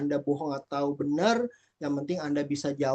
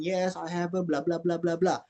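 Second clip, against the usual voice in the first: long rambling answer. Shown as a demonstration. Teacher demonstrates a long exam answer, rambling blah-blahs. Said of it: "harus panjang jawabannya".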